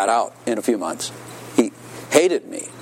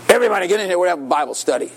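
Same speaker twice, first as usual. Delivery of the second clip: mock announcement pitched high over the block; calling everyone in; 7 semitones higher, much faster than usual. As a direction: summon the whole cell block, playfully acted. Convert calls the cell block.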